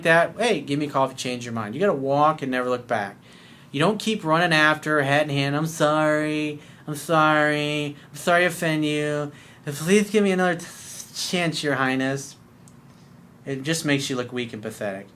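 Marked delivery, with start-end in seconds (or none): 5.6-12.4 slow, pleading mock apology; mock groveling. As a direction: grovel theatrically to royalty.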